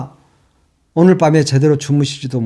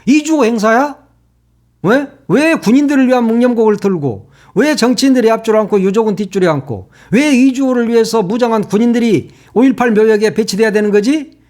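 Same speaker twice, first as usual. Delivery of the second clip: higher, indignant rapid-fire demands; angry questions; 5 semitones higher than usual. Real, not acted. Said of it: "말하다 보니까 화가 나잖아". (화가 나서 연달아 따지는)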